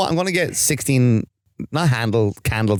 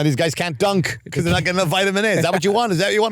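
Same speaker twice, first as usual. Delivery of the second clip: raised, rising mock-indignant appeal; mock outrage; 5 semitones higher, faster than usual. Mocking a charity appeal to a friend, mock outrage. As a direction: preach it like a charity ad gone too far.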